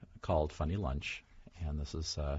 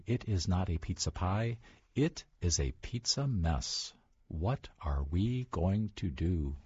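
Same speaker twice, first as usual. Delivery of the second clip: storybook read-aloud; picture book read-aloud, lightly animated; reading to children. Acted. Author reads picture book aloud.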